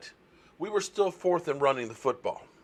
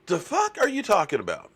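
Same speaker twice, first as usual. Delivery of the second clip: higher, louder indignant snap; indignant retort; 6 semitones higher, 4 dB louder than usual. Retold or imitated. To a person lowballing Dak, indignant loud retort. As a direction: throw the question back in disbelief. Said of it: "And I got indignant".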